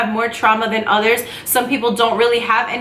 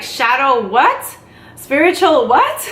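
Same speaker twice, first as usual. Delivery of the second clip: incredulous friends; 2 semitones higher, slower than usual. Retold or imitated. Friends reacting to her spiritual talk.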